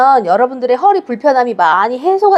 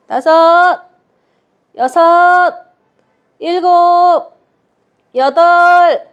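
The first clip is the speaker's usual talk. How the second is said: barking gym coach; 4 semitones higher, much slower than usual. Acted. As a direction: call the reps like a coach. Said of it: "counting out exercise reps".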